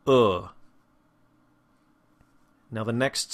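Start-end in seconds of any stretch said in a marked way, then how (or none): 0.1-0.5 short "Uh" as in book; isolated, loosely rounded "Uh"; horseshoe vowel. Shown as a demonstration. Teacher repeats the vowel for learners, short "Uh" as in book. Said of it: "this is the sound in".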